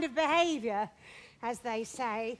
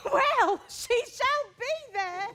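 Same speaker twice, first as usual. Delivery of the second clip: laughing; 4 semitones higher, slower than usual. Acted. Nurse laughing at the news.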